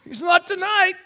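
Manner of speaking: high, loud laughing sarcasm; sarcastic laughing. Retold or imitated. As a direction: laugh it off through gritted irony. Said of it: "We're like".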